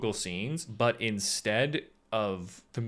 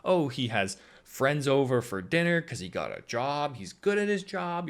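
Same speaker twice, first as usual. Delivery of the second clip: lilting list with raised line endings; light sing-song, pitched up in places; cheery montage gushing; 5 semitones higher than usual. Acted. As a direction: coo over each sweet little development. Lists happy montage in mock delight.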